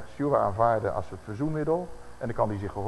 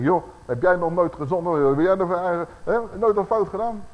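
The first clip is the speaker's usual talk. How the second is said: defensive retort; 4 semitones higher, 5 dB louder than usual. Retold or imitated. Warned brother retorts defensively.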